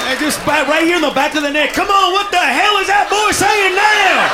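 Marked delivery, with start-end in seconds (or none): 1.7-4.3 higher, indignant mock complaint; irked audience member. White audience member grumbles about Spanish at the club, indignant. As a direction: stretch out the words, put-upon and exasperated.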